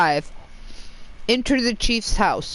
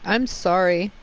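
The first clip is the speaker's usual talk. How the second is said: talking while munching chocolate; words around a bite of chocolate; chewing while talking. Real, not acted. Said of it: "if you hear me munching".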